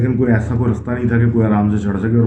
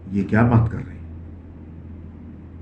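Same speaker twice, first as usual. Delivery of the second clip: slow, hushed, unvoiced whisper; worried whisper; 8 dB quieter, much slower than usual. Wife bewildered by her husband's strange instructions, slow scared whisper. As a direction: breathe the words as a frightened private thought.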